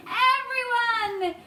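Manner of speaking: loud, slow rallying order; rally everyone behind him to pull; drawn-out command; commanding shout. Acted. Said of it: "shouted the old green grasshopper".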